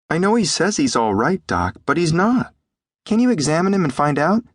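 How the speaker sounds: put-on high-pitched boy pleading with the doctor; high young voice, insistent; worried boy. A narrator's reading.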